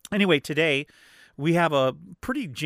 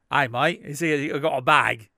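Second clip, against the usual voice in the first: put-on Cockney accent; 3 dB louder than usual. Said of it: "I know that sounds like Cockney".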